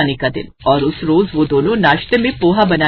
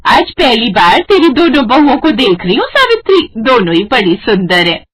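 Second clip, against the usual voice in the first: put-on higher, louder bossy old aunt; loud complaining aunt; 4 semitones higher, 3 dB louder than usual. Aunt complains to sister-in-law about her nephew, loud. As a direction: scold about the late nephew, loud and high.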